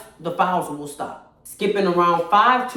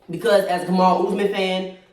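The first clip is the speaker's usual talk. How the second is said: echoey room. Real, not acted. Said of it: "why is it so echoey in here?".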